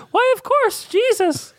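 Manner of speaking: high, eager blurt of the name; excited child shout. Acted. Charles Wallace blurting the answer, high and eager. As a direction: burst out with the answer.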